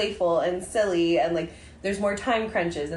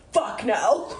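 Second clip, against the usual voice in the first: blurted with a laugh; laughing refusal. Retold or imitated. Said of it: "And I was like".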